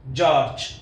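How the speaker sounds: जॉर्ज said as one syllable, "jaarj"; correct pronunciation. Shown as a demonstration. Teacher giving students the proper जॉर्ज as "jorj". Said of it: "इसका pronunciation है जॉर्ज".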